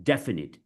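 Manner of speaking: DEFINITE falling from a stressed DEF; short, clear DEF-uh-nit for "definite". Shown as a demonstration. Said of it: "we stress on the def".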